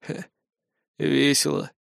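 soft, sour mumble; sour reply. Acted. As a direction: sourly brush it off. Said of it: "кисло отозвался я". (кисло и тихо)

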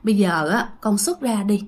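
low, gentle retold plea; soothing coaxing. Aunt stroking and asking the spirit to leave, gentle coaxing. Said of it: "bắt đầu lại vuốt ve".

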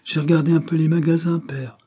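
sobbing. Acted. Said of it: "sanglota Anna".

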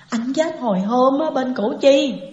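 understated acted grief, voice slightly lifted; lightly voiced sorrowful wail; mild tearful telling. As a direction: give the news with a touch of weeping. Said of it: "mà khóc rồi nói".

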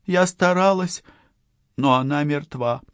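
high-pitched, shaken distress; trembling voice. A narrator's reading. Partner saying she tried to save the victim, trembling voice. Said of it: "дрожащим голосом сказала Аусонио".

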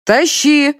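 high loud shout from above. A narrator's reading. Colonel shouting from the ladder, loud. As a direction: call it down from above. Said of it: "крикнули сверху".

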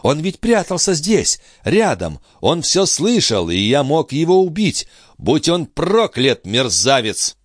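high-pitched regret turning to a slow curse; furious brother. Acted. Brother curses the man he failed to kill, high and bitter.

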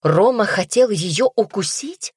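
high, slow, indignant cry. Acted. Настя громко кричит брату о Роме. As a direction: call it out in outrage. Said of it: "ещё громче крикнула она".

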